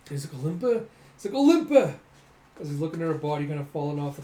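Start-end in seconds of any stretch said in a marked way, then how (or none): 0.3-0.8 louder rising call of her name; worried question. Acted. Fighter calling to the stricken doll, rising and worried. 1.3-1.9 very high, very loud cry of her name; anguished scream. Acted. Fighter screaming as she falls from the platform, high and loud.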